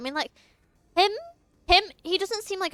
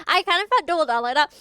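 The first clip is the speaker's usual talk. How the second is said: louder, faster proud comeback; proud retort; 2 semitones higher, 5 dB louder, faster than usual. Real, not acted. Streamer answering chat's teasing, fast and proud. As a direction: own it with swagger. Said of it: "I didn't know Ali could double down".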